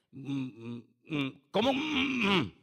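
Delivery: low, wordless hemming and hawing; closed-mouth "mm, mm" in place of an answer; mock hesitant mumbling. Acts out someone unable to answer.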